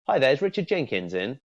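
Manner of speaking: full name said like a cold call; formal full name. Shown as a demonstration. Coach demos a formal cold call opener. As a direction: ask in a stiffer corporate way. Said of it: "do you see the distinct difference".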